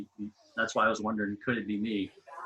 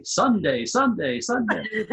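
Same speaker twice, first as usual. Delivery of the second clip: booming rally announcer, rising each time; monster truck ad; 10 semitones higher, 4 dB louder, slower than usual. Pretend. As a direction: hype it like a monster truck ad, each Sunday higher. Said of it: "I sound like the guy that announces the monster truck rally".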